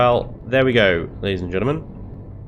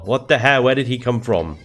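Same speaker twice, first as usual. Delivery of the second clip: alarmed; 4 semitones higher than usual. Real, not acted. Player startled by an enemy appearing, alarmed.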